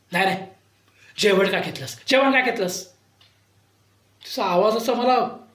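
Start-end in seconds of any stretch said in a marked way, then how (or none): 0.1-2.9 grate on the ears like the madam; shrill madam. Retold or imitated. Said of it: "फार कर्कश आवाज".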